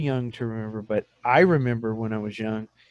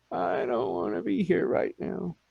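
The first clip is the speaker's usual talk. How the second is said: mock panic; 6 semitones higher, 4 dB quieter than usual. Panicking in rocking boat.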